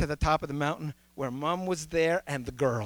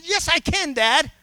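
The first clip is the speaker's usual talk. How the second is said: put-on higher, louder childlike insistence; lightly voiced boy sure of himself; eager little boy; 9 semitones higher, 8 dB louder than usual. Son insists to his dad he can climb, lightly voiced child.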